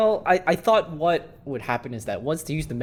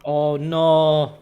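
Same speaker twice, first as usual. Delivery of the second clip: alarmed groan; 2 semitones higher, 9 dB louder than usual. Real, not acted. Dreading a crew member's death.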